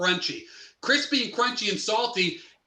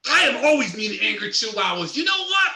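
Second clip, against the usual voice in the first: loud angry yelling at a little dog; angry shouting; 4 dB louder than usual. Acted. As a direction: bark the words out in fury. Being mean to an angry chihuahua.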